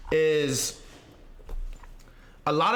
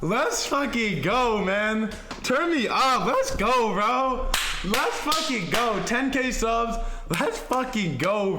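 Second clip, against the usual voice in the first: gym bro; 3 semitones higher, slower than usual. Real, not acted. Celebrating ten K subs.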